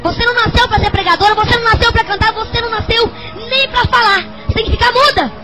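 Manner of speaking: emphatic mock pronouncement; retold doctor's verdict. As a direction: hammer out the verdict, rising each time. Acts out doctor's verdict, insistent.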